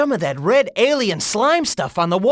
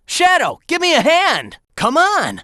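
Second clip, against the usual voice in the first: raised-pitch plea to a teammate; urgent call for help; 6 semitones higher than usual. Acted. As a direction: call Shadow over to help.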